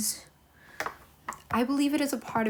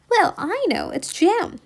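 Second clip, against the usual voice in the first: high, louder triumphant find; aunt's discovery; 8 semitones higher, 5 dB louder than usual. Acted. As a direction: catch him out, pitched up. Aunt discovering jam.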